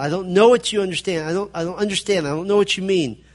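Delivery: emphatic denial. Acted. Peter denying that he knows what is meant, emphatic. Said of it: "It's an emphatic denial".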